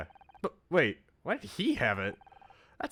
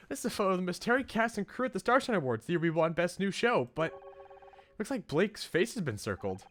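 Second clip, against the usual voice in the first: pitched higher for Honor; re-read the line as Honor, a touch higher; Honor's voice; 6 semitones higher than usual. Acted. Player re-reads the caption as Honor, higher voice. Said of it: "this is still Honor saying it".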